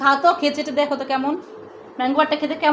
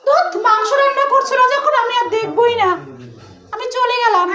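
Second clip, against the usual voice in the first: put-on higher-pitched pouty kid voice; sulky child character; 6 semitones higher than usual. Mother voicing a toy child who sulks off, higher pouty voice. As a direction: play the child toy stomping off in a huff.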